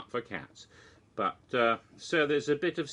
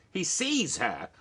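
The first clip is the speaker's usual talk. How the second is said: laughing punchline; 7 semitones higher, slower than usual. Real, not acted. Punchline of his own Yeti pun.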